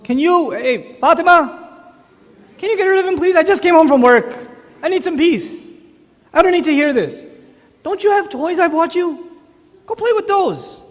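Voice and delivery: dad after work, loud and irritated; exasperated complaint. Retold or imitated. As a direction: whine at your wife to take the kid. Father complaining to wife about child.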